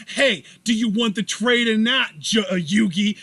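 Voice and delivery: put-on Brooklyn accent, pressing for an answer; Joey Wheeler. Joey pressing Yugi on the trade, Brooklyn accent. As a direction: push the deal in a Brooklyn accent. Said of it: "my Joey Wheeler accent".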